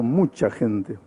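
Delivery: quiet afterthought; soft echo. Acted. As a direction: let "mucha gente" fall away to a soft murmur. Soft echo of mucha gente.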